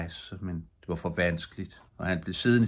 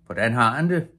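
louder, raised questioning call; a narrator's mild shout, pitched up; 4 semitones higher, 6 dB louder than usual. A narrator's reading. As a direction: call the question over to someone. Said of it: "råbte en af fiskerne".

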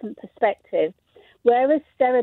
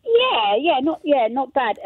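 wonky voice; 3 semitones higher, slower than usual. Real, not acted. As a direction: voice wobbling in pitch. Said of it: "my voice goes wonky at times".

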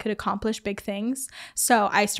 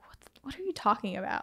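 hushed, puzzled retort, much softer; baffled near-whisper; 9 dB quieter, faster than usual. Retold or imitated. Child baffled by classmates' talk, hushed mock confusion. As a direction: retell it under your breath, confused.

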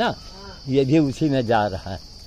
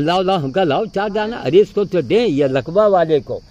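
louder and higher, hurrying them for food; eager urging; 6 semitones higher, 6 dB louder than usual. Real, not acted. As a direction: rush them to hand over the peanuts. Urging companions to hand food. (उत्साह से जल्दी माँगना)

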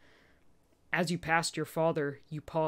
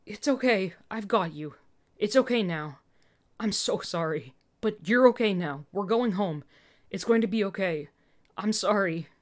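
babbling comfort; 2 semitones higher, 4 dB louder than usual. Acted. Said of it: "You were babbling".

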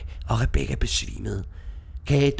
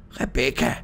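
calling down from a high window, higher and louder; 6 semitones higher, 3 dB louder than usual. Acted. Old widow calls down to the girls with biscuits, calling out. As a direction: call up to the girls eagerly. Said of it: "mens hun kaldte".

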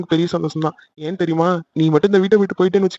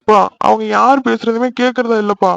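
tearful, raised complaint; still crying; 4 semitones higher than usual. Acted. Son still crying as he tells father no one listens. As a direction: whine through tears to his father. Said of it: "முதல்ல அழுகிறத நிறுத்து".

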